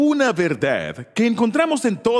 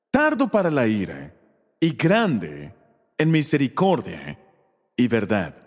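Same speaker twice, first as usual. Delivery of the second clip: solemn God; 4 semitones lower, slower than usual. Retold or imitated. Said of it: "Dios le dijo a Moisés".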